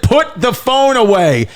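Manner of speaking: high stern command; a lightly voiced Benson ordering phones away; mock-stern high order; imitating Benson. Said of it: "Benson said".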